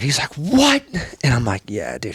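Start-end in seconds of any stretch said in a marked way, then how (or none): 0.4-0.8 high-pitched shocked question; incredulous. Retold or imitated. Buddy shocked by burpee count. 1.7-2.2 low whispered reply; soft, secretive retold whisper; hushed confirmation.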